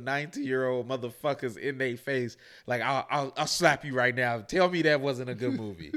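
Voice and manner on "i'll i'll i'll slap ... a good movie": loud mock threat to a doubter; playful confrontational challenge; retold threat. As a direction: dare them to disagree, raised voice. Acting out threatening the young soldiers.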